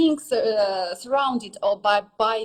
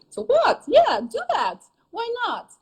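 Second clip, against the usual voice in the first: much higher, rousing dismissal of doubt; emphatic encouragement; 12 semitones higher than usual. Real, not acted. Teacher urging shy learners to pretend, emphatic encouragement. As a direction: urge them on in a high, emphatic voice.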